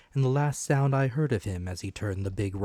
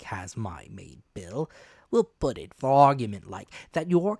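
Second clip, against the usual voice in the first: sly sailor stranger. Acted. Black Dog voiced throughout.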